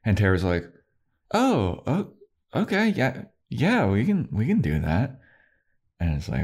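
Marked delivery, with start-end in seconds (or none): 1.3-5.2 much higher, fluttering then settling; flustered. Retold or imitated. Tara flustered agreeing to Willow's plan, high and fluttery. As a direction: stumble up high and nervous, then calm down.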